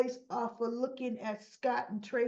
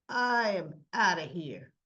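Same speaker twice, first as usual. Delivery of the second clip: firm announcement; 4 semitones lower than usual. Retold or imitated. Acts out Martin standing up to leave.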